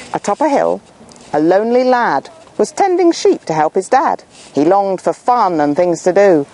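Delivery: put-on lively rhyming read-aloud for children; story narration. A narrator's reading. Narrator reading a rhyming fable to children. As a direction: tell the rhyme with a bounce.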